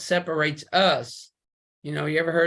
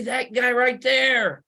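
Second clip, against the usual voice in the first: accusing shout; 3 semitones higher, slower than usual. Acted. Creator accusing at judgment.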